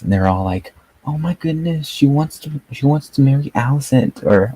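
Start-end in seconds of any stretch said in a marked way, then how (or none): 1.1-4.2 high, breathless gushing fan voice; mock fan gasp. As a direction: gush like an overexcited fan online. Mocking excited Twitter fans.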